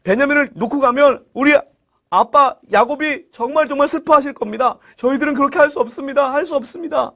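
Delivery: high-pitched, pleading lament; hammed-up distraught protest; acted wailing. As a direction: beg desperately, as if close to tears. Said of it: "하면서 통곡을 하는 거예요".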